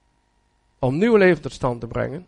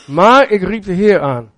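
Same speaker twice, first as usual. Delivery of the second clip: louder, stress on maar; emphatic proclaim; 2 semitones higher, 6 dB louder than usual. Acted. Preacher echoing the psalmist's cry to God, loud and emphatic. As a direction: proclaim it to the hall.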